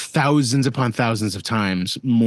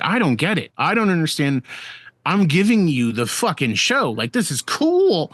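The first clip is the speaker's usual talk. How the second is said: frustrated pleading; 5 semitones higher than usual. Retold or imitated. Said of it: "I was mad".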